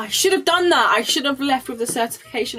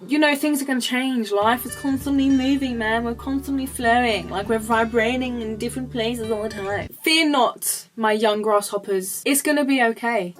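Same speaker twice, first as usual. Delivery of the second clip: a hint of a zen master; mock hippie guru; 2 semitones higher than usual. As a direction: play a mellow mentor calling them grasshoppers.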